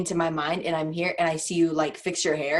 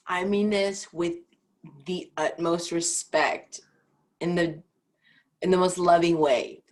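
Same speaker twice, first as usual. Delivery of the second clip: mock polite. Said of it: "That's like someone saying".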